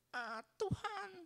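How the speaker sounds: very high, slow, put-on crying and sobbing wail.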